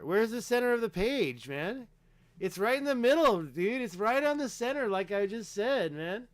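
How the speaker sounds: excited, jabbing the point home; excited insisting. Real, not acted. Insists pyramid centre claim.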